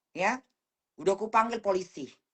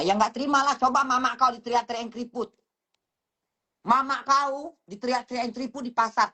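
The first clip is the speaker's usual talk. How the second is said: heated, higher-pitched tirade at a hater; angry rant; 4 semitones higher than usual. Real, not acted. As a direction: lash out at the commenter, voice raised in pitch. (omelan marah dengan nada tinggi)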